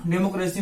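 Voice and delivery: डेमोक्रेसी parted into डे, मो, क्रे, सी; syllable by syllable. Shown as a demonstration. Teacher recaps the four syllables, syllable by syllable. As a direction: break डेमोक्रेसी into four beats. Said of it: "तोड़ के बनाइएगा".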